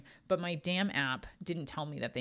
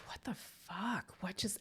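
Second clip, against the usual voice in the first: whispered shock; 4 semitones higher, 6 dB quieter, slower than usual. Retold or imitated. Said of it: "And I'm like".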